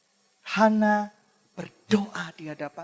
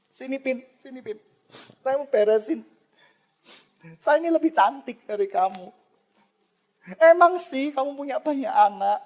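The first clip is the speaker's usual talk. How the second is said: Hana pleads with her rival, slightly raised and teary; plead, hurt and a bit higher, as Hana; pleading wife; 3 semitones higher than usual. Acted. (Hana memohon kepada madunya dengan suara agak tinggi dan sedikit menangis)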